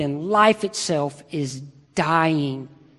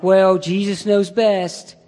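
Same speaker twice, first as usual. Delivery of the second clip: mock pious calm; slower than usual. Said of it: "I would be like".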